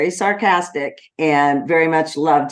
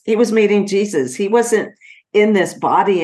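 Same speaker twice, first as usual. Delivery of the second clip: higher, faster and brighter in real joy; joyful emphasis; 6 semitones higher than usual. Real, not acted. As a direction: repeat it with rising conviction. Repeats it with rising joy.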